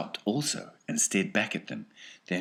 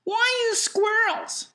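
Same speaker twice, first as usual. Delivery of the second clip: put-on boy's question; 8 dB louder, slower than usual. Mike asks Wonka.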